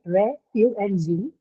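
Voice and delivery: Re, fu, and G said as separate syllables with a pause after each; teacher splitting refugee into syllables. Shown as a demonstration. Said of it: "Refugee is a three syllabic noun".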